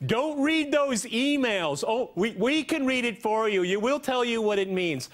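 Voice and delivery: mocking, high-pitched quote of an anchor; Chris Cuomo. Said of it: "Chris Cuomo on C N N said".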